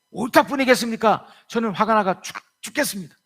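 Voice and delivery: high, loud sulky anger; angry Jonah. Acted. Jonah snapping back at God, high and loud.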